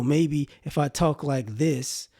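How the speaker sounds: slow, measured put-on proper talk; deliberate, slowed-down formal delivery; code-switched serious voice. Shown as a demonstration. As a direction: demonstrate talking to be taken seriously. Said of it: "not like I'm talking now".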